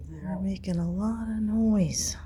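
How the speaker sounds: unvoiced hushed aside; whisper. Real, not acted. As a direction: whisper so the workers won't hear. Unvoiced whisper near workers.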